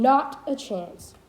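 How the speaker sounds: not a chance, slowly, weight on not; dactylic stress. Shown as a demonstration. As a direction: hit not, then go lighter. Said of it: "one stressed syllable followed by two unstressed".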